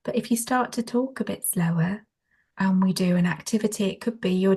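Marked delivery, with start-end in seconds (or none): 0.0-2.1 measured, gently lilting delivery; slower talking. Shown as a demonstration. Trainer contrasting with her fast talk, slower talking. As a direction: ease off the speed to show calm. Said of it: "I was talking quite fast then".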